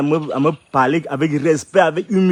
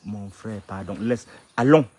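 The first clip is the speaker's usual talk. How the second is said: mock pleading; 5 semitones lower, 3 dB quieter, slower than usual. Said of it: "me supplie".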